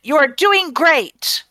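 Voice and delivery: slow, high hero's cheer; yelled encouragement. Acted. Raylene cheering on a struggling racer, yelled encouragement. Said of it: "Raylene will also yell encouragement".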